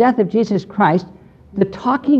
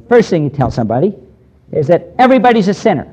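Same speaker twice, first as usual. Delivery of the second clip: retold skeptic; faster than usual. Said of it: "he said it something like this".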